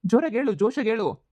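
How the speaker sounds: loud and high, egging someone on; too loud for a secret; loud, spirited urging. Acted. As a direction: urge them noisily to speak up. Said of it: "ಶ್ಶ್, ಜೋರಾಗಿ ಮಾತಾಡ್ಬೇಡ".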